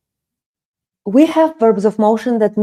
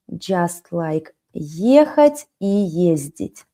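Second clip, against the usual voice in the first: ехать и ездить drawn out slowly and evenly; slow demonstration; 4 semitones lower, 4 dB quieter, slower than usual. Shown as a demonstration. Teacher repeating the verb pair for students, slow. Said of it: "Let's do it like this".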